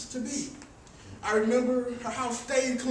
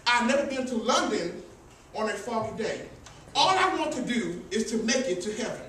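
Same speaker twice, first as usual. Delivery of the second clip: rhythmic sermon delivery, rising; preaching cadence. Acted. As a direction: preach it like a poem. Poetic eulogy preaching.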